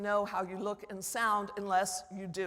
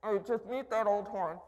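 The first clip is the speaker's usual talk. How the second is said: muffled talk behind a hand; hand over mouth. Shown as a demonstration. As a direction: speak with the mouth covered. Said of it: "I would talk like this".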